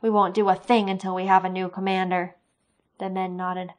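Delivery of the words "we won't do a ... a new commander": louder, hard defiant demand; defiant soldier. Acted. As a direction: stand up to him, loudly. Defiant soldier confronts creature.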